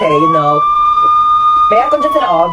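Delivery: very high, loud squeaky voice; squealy. Acted. Conyo girl squeals excitedly about the car's aircon.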